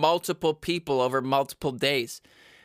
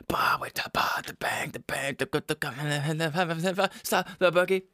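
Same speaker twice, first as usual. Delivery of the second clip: unvoiced whisper of the rap. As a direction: whisper the nonsense lyrics. Same song, whispered.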